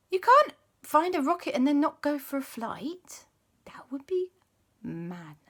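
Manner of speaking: high whispered aside; conspiratorial whisper. Acted. Aunt confiding that skipping the flight would be madness, whispered. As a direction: whisper it like a secret. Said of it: "And Auntie says".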